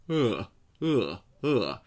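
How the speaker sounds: yawning hollow uh; yawny sound. Shown as a demonstration. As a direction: sing it like a yawn. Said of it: "feels a little bit like yawning".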